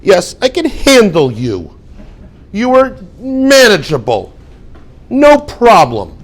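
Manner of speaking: slow, drawn-out, looking down on them; condescending. Shown as a demonstration. Teacher mocks a grudging no problem, slow and condescending. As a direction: make it sound like they were a burden. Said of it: "they'll say it in a nice way".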